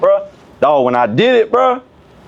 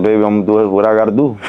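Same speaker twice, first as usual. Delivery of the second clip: laughing reply; 9 semitones lower, faster than usual. Retold or imitated.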